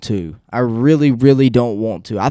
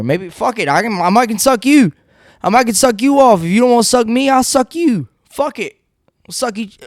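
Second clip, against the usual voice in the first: much higher, silly joking voice; mock high joking voice; 9 semitones higher than usual. Crude joke to viewers in a high silly voice. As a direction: play it up, high and goofy.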